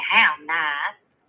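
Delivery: drawn-out mock-polite punchline; lightly acted sweet dismissal; Southern belle. Belle after etiquette school, drawn-out polite put-down. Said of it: "But now I say".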